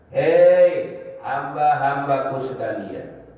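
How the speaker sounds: lightly voiced divine questioning, drawn-out words; God addressing humanity. Preacher voices God reproaching His servants on Judgment Day, slow solemn questioning. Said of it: "Allah bilang begini".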